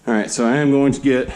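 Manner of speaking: winded, catching breath between words. Real, not acted. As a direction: talk while short of breath. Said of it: "I'm a little bit out of breath".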